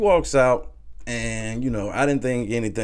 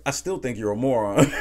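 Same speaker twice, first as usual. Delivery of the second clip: laughing through the quote. Real, not acted. Retold insult, laughs after.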